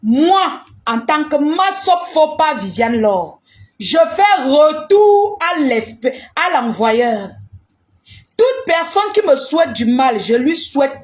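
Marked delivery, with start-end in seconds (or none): 3.8-7.3 hurling the curse back at them; forceful declaration. Real, not acted. Casting back curses, loud.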